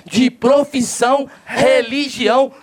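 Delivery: booming circus ringmaster; ringmaster announcement. Acted. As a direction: announce the show to the crowd.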